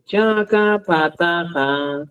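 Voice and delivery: "chacapataja" very slow with a puff of breath after ch, k, p, t; aspirated stops. Shown as a demonstration. Teacher demonstrates aspirated stops for his class. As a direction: breathe out hard on each stop of "chacapataja". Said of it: "Y es distinto".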